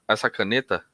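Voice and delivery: hypnotist easing a client into trance; hypnotic suggestion. Shown as a demonstration. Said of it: "eu vou falar".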